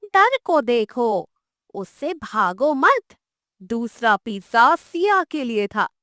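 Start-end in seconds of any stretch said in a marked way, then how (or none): 0.0-3.0 slow, calm reassurance. Acted. Witch calming the scared children, slow and calm. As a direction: soothe the frightened children. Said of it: "शांत स्वर में बोलती है".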